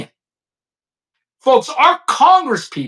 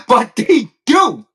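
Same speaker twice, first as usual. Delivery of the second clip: laughing; 2 semitones higher, slower than usual. Real, not acted. Laughing at own point.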